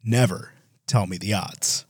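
an aging actor's line; old Mark Hamill. Retold or imitated. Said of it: "That's what Mark Hamill sounds like now".

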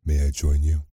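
a lightly voiced rasping monster; slow rasping beast. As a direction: draw out the name like a hoarse beast. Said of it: "in his slow, rasping voice".

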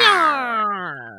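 plain cat meow. Pretend. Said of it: "there's the cat version".

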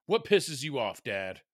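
lightly imitated indignant kid; imitating son yelling. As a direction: play a kid calling Dad out, only half yelled. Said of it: "at my son yelling".

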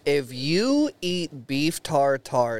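slow, deliberate, weighty warning; slow emphatic warning. Real, not acted. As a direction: spell it out like a public warning. Announcing a PSA on podcast.

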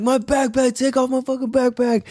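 high, strained plea to get the backpack off; desperate plea. Retold or imitated. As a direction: beg him, straining. Desperate demand to rescuer.

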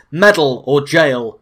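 loud, drawn-out yell. Acted. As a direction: bellow it slowly like a rallying cry. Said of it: "running around yelling".

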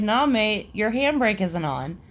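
imitated unbothered answer; reply mildly and evenly; easygoing retold correction; calm reply. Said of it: "then calmly replied".

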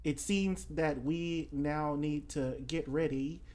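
Australian announcing a departure; rally companions as an Australian; Florals in Spring. Acted. Telling mates to get ready to go, Australian accent. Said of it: "he, um, says".

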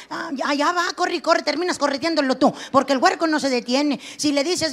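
ordinary delivery

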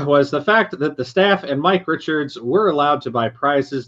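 formal announcer read. Acted. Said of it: "you get to do your announcer voice now".

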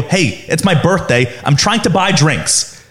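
slow, mildly indignant retold plea; getting aggressive. Birthday customer protesting to the bouncer, mildly aggressive. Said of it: "Bronson was getting aggressive".

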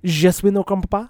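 fake French accent. Shown as a demonstration. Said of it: "just a good fake French accent".

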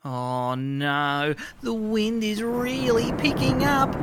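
ordinary talk

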